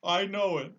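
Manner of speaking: high, loud lion owning up; a lion hanging his head in shame; a hint of shame in the lion voice; ashamed lion. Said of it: "hanging his head in shame".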